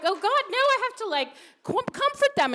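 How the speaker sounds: mock distress. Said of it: "And I was like".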